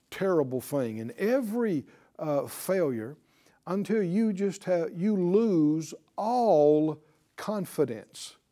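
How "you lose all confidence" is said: "you lose all confidence" drawn out slowly, leaning on "all"; slow, stressed phrase. Shown as a demonstration. Preacher makes the congregation hear the word, slow and stressed. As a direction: spell out each word slowly. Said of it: "Did you hear that word?".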